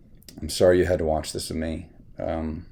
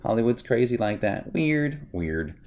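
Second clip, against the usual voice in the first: higher mocking prissy actress voice; mock impression of the actress, higher; imitating Rachel Zegler; 7 semitones higher than usual. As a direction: mimic her dismissive tone, pitched up. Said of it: "when Rachel Zegler was like".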